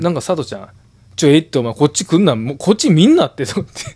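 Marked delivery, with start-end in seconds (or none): 1.1-3.4 imitating a friend snapping get away from me, a bit louder; mock-hostile schoolboy telling someone off; retold angry outburst. Friend mimics a classmate telling a rival to back off, mock angry. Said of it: "むちゃくちゃ言うねやんか".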